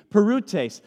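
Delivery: parutes said as PAH-roo-tace, stress on first syllable; Greek word parutes. Shown as a demonstration. Pastor teaching the congregation to say parutes. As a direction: spell out parutes slowly in Greek. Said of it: "Let me hear you say parutes".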